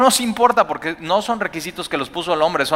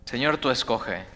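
soft prayer; 2 semitones lower, 6 dB quieter than usual. Shown as a demonstration. Modeling a surrendered prayer.

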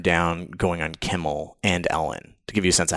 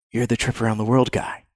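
starstruck recognition; 3 semitones higher than usual. Retold or imitated.

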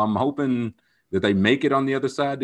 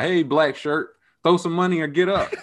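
higher-pitched imitation of a club announcer singling someone out; mock calling-out; 6 semitones higher than usual. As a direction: call out a customer, playfully imitated. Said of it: "they will call you out".

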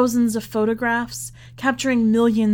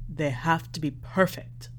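lightly voiced old man, low and soft, insisting; a hint of an old man's firm request; stressed; 5 semitones lower, 5 dB quieter than usual. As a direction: press it home gently as the old father. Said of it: "Lamek stressed".

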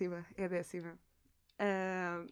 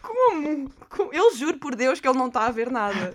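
incredulous; 3 semitones higher, 12 dB louder than usual. Real, not acted. Shocked he misses obvious clue.

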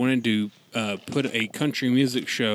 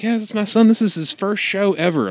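higher, louder proud excitement; proud dad; 9 semitones higher, 3 dB louder than usual. Retold or imitated. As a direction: beam about your son. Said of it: "he was like".

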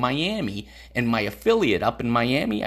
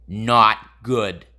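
terse, louder retold verdict; contained anger; 3 semitones lower, 5 dB louder than usual. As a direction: imitate a sweet guy who is mad. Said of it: "He was fucking mad".

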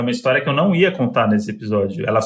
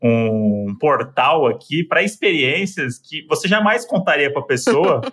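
very slow, drawn out; slow dramatic build; much slower than usual. Real, not acted. Explaining how the podcast opens a portal, slow and drawn out. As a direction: stretch each word for suspense. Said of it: "slowed for effect".

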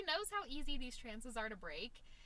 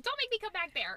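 higher and louder mock angry father; mad dad; 10 semitones higher, 8 dB louder than usual. Dad threatening the fighting kids in back, mock angry. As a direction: bark it like a fed-up dad at the backseat. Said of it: "Daddy's mad".

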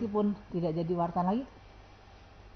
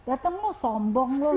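slow, slightly higher teasing grumble; mock gruff summons; 5 semitones higher, 4 dB louder, slower than usual. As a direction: grumble the invitation as a fond scolding. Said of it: "Tapi selalu pakai marah". (tiruan omelan akrab, pelan)

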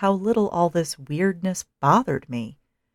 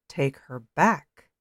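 annoyed; slower than usual. A narrator's reading. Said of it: "how very annoyed that voice continued to sound".

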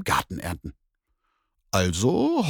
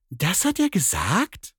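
much higher, slow, indignant cat voice; annoyed cat; 10 semitones higher than usual. Acted. Cat hears what the neighbour said, high and indignant. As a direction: bristle at the news like a cat. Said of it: "fragte die Katze verärgert".

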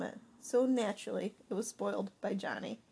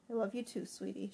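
tender; 5 dB quieter than usual. Acted. Mother tender to daughter.

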